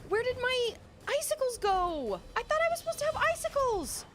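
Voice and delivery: very high, whiny lament; high-pitched, crying complaint; distraught wail. Real, not acted. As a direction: wail it like a thwarted player. Losing in game, icicles gone.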